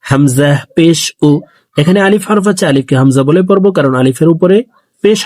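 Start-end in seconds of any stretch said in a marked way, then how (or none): 0.1-1.3 final উ short, with rounded lips; short rounded vowel. Shown as a demonstration. Teacher demonstrates the pesh vowel, a short round-lipped উ. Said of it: "ঠোঁট গোল করে তাড়াতাড়ি".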